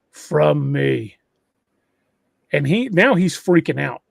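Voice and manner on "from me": lightly imitated deep creature voice; deep guttural voice. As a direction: echo it low, a hint of guttural. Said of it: "very deep, very guttural voice go".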